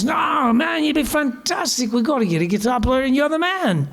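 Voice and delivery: high-pitched, eager mock English voice; a musician's English accent. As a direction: urge in an excited imitated English accent. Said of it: "he's this kind of guy".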